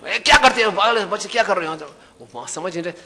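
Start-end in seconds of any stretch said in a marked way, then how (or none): 0.1-1.7 mild mock scolding. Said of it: "उसकी पत्नी से गुस्सा आ गया".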